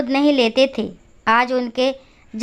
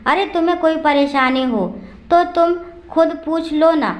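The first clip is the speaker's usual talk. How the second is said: evasive brushing off; 3 semitones higher than usual. Acted. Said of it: "बात टालता हुआ बोला".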